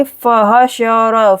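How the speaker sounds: फहशर as four short even beats; measured फहशर with no long vowel. Shown as a demonstration. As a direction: keep every vowel of फहशर unstretched. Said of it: "जल्दी से पढ़ेंगे".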